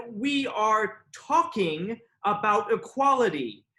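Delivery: slow, measured speechifying; lofty written reply. Acted. Man reads his reply on shared humanity, slow lofty declaiming. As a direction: declaim it grandly, phrase by phrase. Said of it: "I responded".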